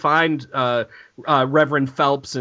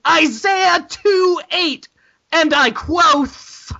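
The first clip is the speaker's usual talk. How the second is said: mock solemn citation; 12 semitones higher, much slower than usual.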